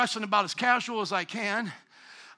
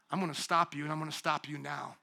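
low stern God; 8 semitones lower, 8 dB quieter than usual. Retold or imitated. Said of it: "He says".

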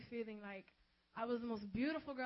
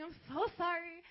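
pleading apology; 5 semitones higher than usual. Retold or imitated.

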